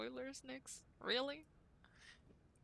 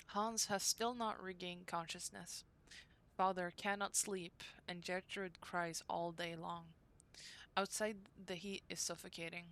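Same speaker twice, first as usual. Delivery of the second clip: diary reading. Acted. Reads diary entry from game.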